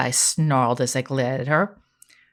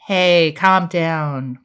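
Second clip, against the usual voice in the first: soft calming; much slower than usual. Acted. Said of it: "in a soft voice".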